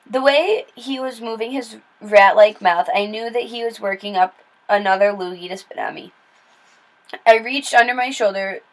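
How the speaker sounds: ordinary delivery, nothing marked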